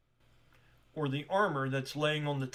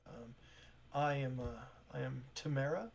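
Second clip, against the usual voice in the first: softer, hesitant apologetic shop clerk; flustered shopkeeper; 5 dB quieter than usual. Acted. Tamara apologizing to strangers, softly flustered. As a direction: stumble politely, a little embarrassed.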